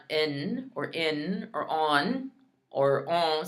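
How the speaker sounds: in, in, on, on with mistaken vowels; wrong versions of en. Shown as a demonstration. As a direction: swap the EH of en for in or on. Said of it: "So it's not".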